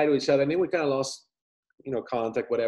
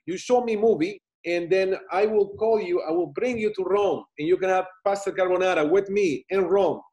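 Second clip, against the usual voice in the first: put-on Italian accent; 4 semitones higher than usual. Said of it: "in his Italian accent".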